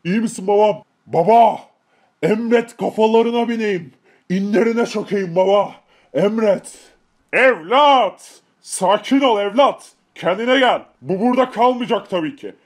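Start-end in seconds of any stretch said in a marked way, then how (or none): 1.1-1.6 loud, urgent cry; urgent call. Acted. Calling the father. 7.3-10.8 loud steadying call; firm call. Acted. Father answers the son.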